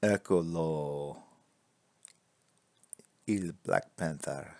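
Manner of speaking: slow, hammed-up Italian flourish; mock Italian. Artist unveiling his drawing to viewers, mock Italian flair. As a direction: present the drawing like an Italian showman.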